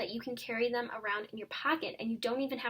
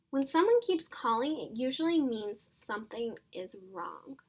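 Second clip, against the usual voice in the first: lively read-aloud storytelling voice; story reading to children. A narrator's reading. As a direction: read it like a teacher sharing a book with kids. Teacher reads chapter aloud to class.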